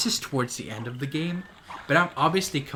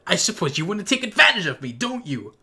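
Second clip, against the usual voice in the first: mock seductive witch; 6 semitones higher, 6 dB louder than usual. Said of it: "You just said".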